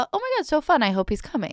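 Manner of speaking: high bubbly imitation; mock excited. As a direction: imitate her gushing. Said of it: "Hon bara".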